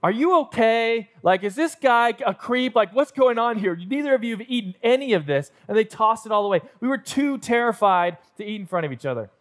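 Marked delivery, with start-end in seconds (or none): 0.0-5.5 concerned waitress. Retold or imitated. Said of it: "And she's like".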